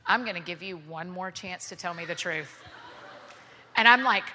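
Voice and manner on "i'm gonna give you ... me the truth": stern threat. Retold or imitated.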